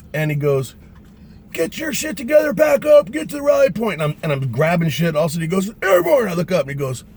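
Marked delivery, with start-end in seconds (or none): 1.5-4.0 high, loud string of commands; sergeant's shouted orders. Retold or imitated. Black Hat sending a jumper to the rally point, shouted orders. 5.8-6.3 high, loud holler; one sudden hailing yell; shouted call. Retold or imitated. Black Hat suddenly hailing the jumper, loud shout. Sergeant hails him.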